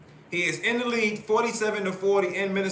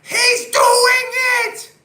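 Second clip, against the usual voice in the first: much higher, loud, slow drawn-out yell; imitating a trainer's yell; 11 dB louder, much slower than usual. Paulie shaking Rocky's trainer, hammed-up slow shout. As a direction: shout it like a ringside trainer losing it. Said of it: "he started shaking him".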